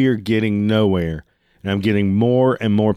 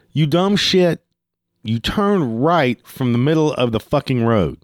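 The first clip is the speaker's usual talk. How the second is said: higher-pitched, drawn-out mock exasperation; retold flipping out; 4 semitones higher, slower than usual. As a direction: act out berating an idiot, without shouting. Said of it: "I'm starting fucking flipping out".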